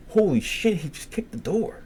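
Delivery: high-pitched imitated alarm; shocked exclamation. Roommate jumping up at the boom, shocked. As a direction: blurt it high, as if stunned. Roommate's startled reaction retold.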